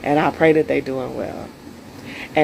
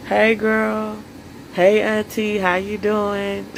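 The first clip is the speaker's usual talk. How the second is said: higher, slow, sugary hello to auntie; sweet phone greeting; 5 semitones higher, slower than usual. Acted. Calling her auntie to reconcile, higher sweet greeting. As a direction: put on your nicest phone voice, stretch the how you doing. Acting out a friendly phone call.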